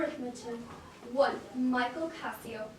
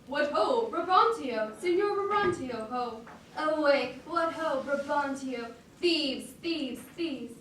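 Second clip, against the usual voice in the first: dire yell. Acted. Roderigo rouses Brabantio from the street, yelling alarm. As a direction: raise the alarm, yell it into the night. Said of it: "with light timorous accent and dire yell".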